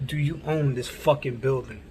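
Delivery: imitating a demand, falling at the end; retold firm repeat. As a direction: repeat the challenge, landing on OWN. Repeats it after "Huh?.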